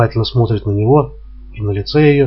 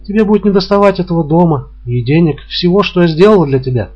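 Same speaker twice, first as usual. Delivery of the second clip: higher, bitter reproach; reproachful woman; 8 semitones higher, 3 dB louder than usual. A narrator's reading. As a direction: remind him what he owes her. Woman reproaches departing lover. (горький упрёк, выше обычного)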